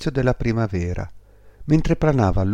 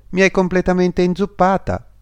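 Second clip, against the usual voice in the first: high, louder scolding; indignant complaint; 10 semitones higher, 5 dB louder than usual. A narrator's reading. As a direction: protest in a raised, higher voice. Drenched swallow scolds the statue. (protesta indignata)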